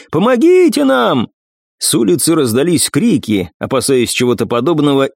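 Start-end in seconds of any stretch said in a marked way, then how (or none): 0.1-1.3 calling for help. Acted.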